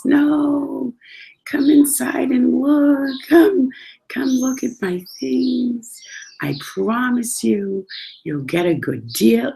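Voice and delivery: put-on high, slow, drawn-out old Jewish merchant; imitating an old Jewish man's wheedling singsong. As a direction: coax like an old Jewish shopkeeper, stretching each phrase. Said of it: "acting like an old Jewish man".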